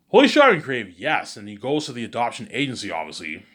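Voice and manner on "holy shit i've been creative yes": loud, high burst of excitement; real self-delighted outburst. Real, not acted. Storyteller thrilled at being creative, excited outburst. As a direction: exclaim it, pitched way up. Speaker delighted at own invention.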